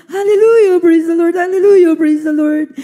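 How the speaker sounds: repeated hallelujah. Retold or imitated. Repeating praise to drive off the voice, fervent. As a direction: keep calling hallelujah, building up. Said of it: "paulit-ulit ko pong binanggit".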